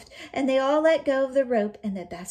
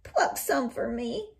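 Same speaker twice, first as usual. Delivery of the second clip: begging wolf; 3 semitones higher, slower than usual. Acted. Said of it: "the wolf begged".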